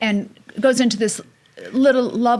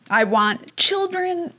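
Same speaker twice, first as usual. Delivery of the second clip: son's fearful plea; 11 semitones higher, much slower than usual. Retold or imitated. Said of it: "And he said".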